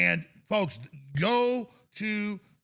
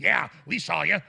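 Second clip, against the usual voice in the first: demon voice; 2 semitones lower, 5 dB louder than usual. Retold or imitated. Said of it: "talk to me like a demon".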